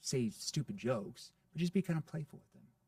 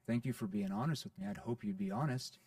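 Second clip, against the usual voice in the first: pissed; 3 semitones lower than usual. Shown as a demonstration. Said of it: "sounds kind of like you're pissed".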